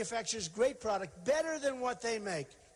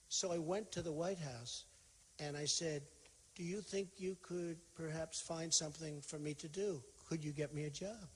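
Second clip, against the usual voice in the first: imitating a meek, much softer little voice; mock meek; 3 semitones lower, 6 dB quieter than usual. Imitating Caroline Kennedy's meek answer to the interviewer, hushed. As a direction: play her small and meek. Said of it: "She said very meekly, very nicely".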